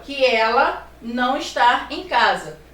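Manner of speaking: slow down and hit the não; stress on não. Shown as a demonstration. Teacher stressing the negation for students, slow and firm. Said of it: "o não está reforçando a ideia da negação".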